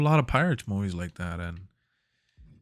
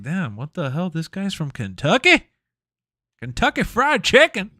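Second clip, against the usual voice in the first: mock disbelief; 7 semitones higher, 6 dB louder than usual. Retold shock at Kentucky.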